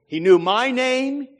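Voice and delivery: ordinary talk, nothing marked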